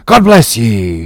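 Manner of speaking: slow, emotional blessing; half sob, half shout. Acted. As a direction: bless them, overcome. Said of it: "half sob and half shout".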